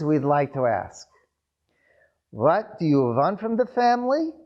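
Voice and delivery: put-on grandmother questioning the young bride in a Jewish accent; grandmother's Jewish accent. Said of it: "She had a very thick Jewish accent".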